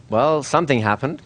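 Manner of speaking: understated, casual remark; casual, played down. Shown as a demonstration. Hypnotist playing down what just happened to a subject, casual. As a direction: play it down, offhand. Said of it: "You're gonna play it down. It's casual".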